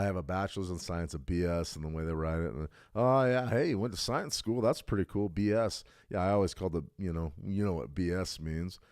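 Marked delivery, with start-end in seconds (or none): 2.9-5.8 higher, louder, sarcastic cheer; mock impressed. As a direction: gush with fake admiration. Mocking people impressed by degree.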